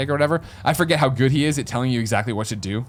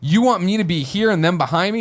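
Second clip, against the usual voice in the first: mock judge protest; 7 semitones higher, 3 dB louder than usual. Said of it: "the judge's like".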